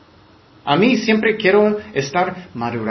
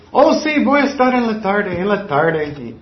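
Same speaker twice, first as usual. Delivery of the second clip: mocking empty promise; 3 semitones higher than usual. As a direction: sing out a promise you won't keep. Joke expression from mission days.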